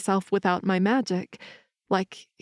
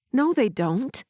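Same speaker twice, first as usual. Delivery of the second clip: raised, insistent protest; arguing; 5 semitones higher than usual. Acted. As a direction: push back hard, a little higher. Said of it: "I argued".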